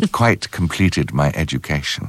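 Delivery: lightly imitated princess with a sly smile; a hint of wicked understatement, pitched low; Princess Diana. Princess teasing the actor about the show, slyly understated imitation. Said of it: "a very wicked smile came with that sentence".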